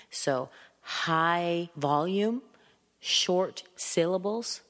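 slow, separated, forceful words; too strong. Shown as a demonstration. Teacher showing an upsetting boss's tone, too strong. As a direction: punch each word out too strongly. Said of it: "talked to me like that".

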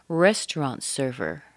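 RESTAURANT carries the weight, "server" lighter; stress on RESTAURANT. Shown as a demonstration. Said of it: "We're stressing the restaurant".

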